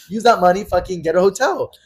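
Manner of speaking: high, loud exasperated command; retold angry order. Telling a friend to use that money for a hotel, angry. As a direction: re-enact ordering someone off in a temper.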